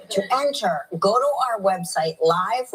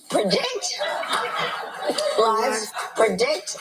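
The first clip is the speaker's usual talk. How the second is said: laughing; 2 semitones higher, much slower than usual. Real, not acted. Corrects slip while laughing.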